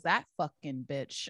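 low, slow, soft mutter behind her back; muttered insult. Retold or imitated. Bar gossip badmouthing her friend, low slow mutter. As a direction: hiss it under your breath, slowly. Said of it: "and she goes".

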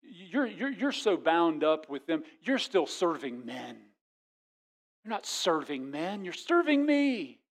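a patient divine rebuke; God speaking gently. Acted. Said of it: "God says".

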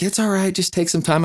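high-pitched soothing voice of others; imitated reassurance. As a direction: act out consoling someone in tears. Interviewers comforting him as he cries.

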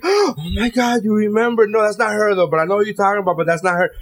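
hammed-up excited wife recognizing the name; playing the wife as she gushes over the gossip; mock excited wife. Acting out wife's reply.

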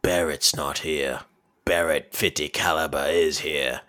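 Barrett in a put-on voice denying he's home. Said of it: "he was like".

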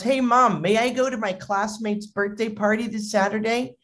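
lightly acted eager kid request; lightly voiced kid. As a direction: imitate a child asking permission. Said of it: "a kid comes home and he goes".

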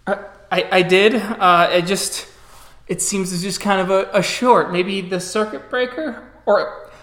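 hesitant, stammering father; halting, unsure defence; nervous excuses. Acted. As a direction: fumble for an explanation to your daughter. Cowed father makes nervous excuses.

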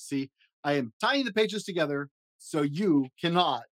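high fuzzy Muppet monster, jittery and fretful; Grover voice. Acted. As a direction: play a nervous, lovable blue monster. Grover voice reading story.

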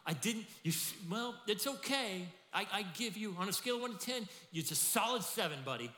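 high, loud, condescending hedging; mock lukewarm master; grudging praise. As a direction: let him down with faint praise. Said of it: "he doesn't say".

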